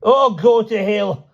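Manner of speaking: put-on high, loud, slow furious old man; a furious old man explodes; savage outburst. A narrator's reading. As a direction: spit it out savagely. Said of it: "he exclaimed suddenly and savagely".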